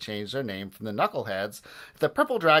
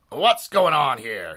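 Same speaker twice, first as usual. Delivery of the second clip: loud, slow, drawn-out demand; gruff demand; 3 semitones higher, 7 dB louder, slower than usual. A narrator's reading. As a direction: demand it like an irate principal. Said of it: "he demanded".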